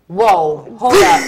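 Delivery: surprised. Real, not acted. Host reacts to guest yawning.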